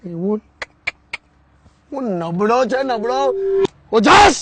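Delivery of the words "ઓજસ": shouting the name. Shown as a demonstration. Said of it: "બૂમ પાડ".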